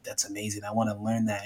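soft, understated awe, acted out; sincere admiration. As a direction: quietly imitate someone truly impressed. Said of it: "you really are like".

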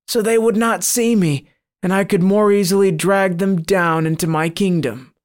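a demon taunting the priest; sly monster. Acted. Monster explains hiding.

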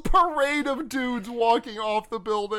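high, loud, helpless laughter through the words; laughing while talking. Real, not acted. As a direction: barely get it out for laughing. Cracks up describing absurd scene.

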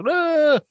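high-pitched imitated "ah"; mock cry. Co-host acting out the unplussed character's reaction, mock cry. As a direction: let out a high, comic "ah".

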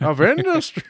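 high, proud proclamation; grand announcer voice. Acted. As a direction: boom it like a slogan. Running industry bit.

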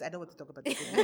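put-on Nigerian accent. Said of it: "I'm about to use an accent".

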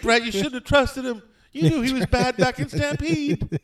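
very high, squealed scolding; mock lament. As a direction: wail it high in comic dismay. Joking reaction to his own bit.

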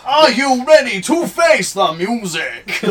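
game show announcer. Pretend.

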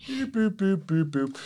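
high beeping boops; bomb timer beeps. Real, not acted. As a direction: beep like a timer. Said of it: "I closed out".

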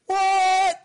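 high, loud shocked "What?"; loud, high-pitched mock disbelief; baffled what. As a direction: yelp it in disbelief. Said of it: "she's like".

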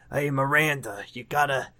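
rough go at a character impression; lightly put-on character voice; Steve. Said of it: "my Steve voice, I mean".

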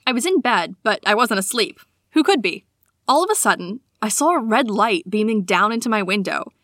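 measured read-aloud storytelling; story narration. A narrator's reading. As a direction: read it aloud like a personal tale. Reads a listener's sighting aloud.

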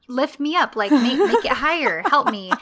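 playful, insistent begging; mock child pleading. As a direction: beg like an impatient kid, half laughing. Child pleading in retold scene.

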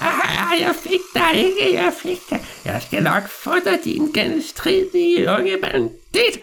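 put-on very high, slow old man gloating; a gleeful old villain chasing the boy; villainous old man.

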